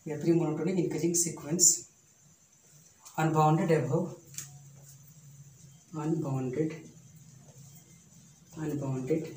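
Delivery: slow and deliberate, word by word; slow dictation. Shown as a demonstration. Teacher dictating a theorem to students, slow and deliberate. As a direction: spell it out slowly for notes.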